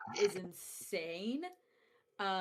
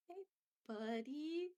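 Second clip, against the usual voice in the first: gentle coaxing; 6 semitones higher, 7 dB quieter, slower than usual. Acted. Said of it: "much like a scared animal".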